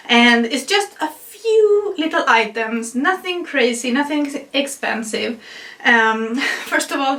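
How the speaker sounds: slightly breathless, pregnant and winded; out of breath. Real, not acted. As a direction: talk while short of breath. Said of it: "sorry for being so out of breath".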